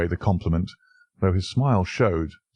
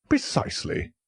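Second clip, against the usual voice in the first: whispered, breathy agreement; 8 semitones higher than usual. A narrator's reading. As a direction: breathe the word almost soundlessly. Colonel agrees quietly.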